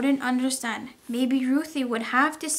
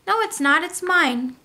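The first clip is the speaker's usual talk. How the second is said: raised, insistent no; kid arguing back; 4 semitones higher, 4 dB louder than usual. Acted. Ruthie arguing with Martin over the camera, insistent. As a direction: argue back like a child who won't give in.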